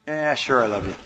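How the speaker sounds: offhand, half-hearted "Yeah, sure, I love you" with the voice dropping away; dismissive. Shown as a demonstration. Partner asks for reassurance, answered with careless indifference. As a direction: brush the words off like you don't mean them. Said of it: "the dominant message, which is the body language and the tone of voice".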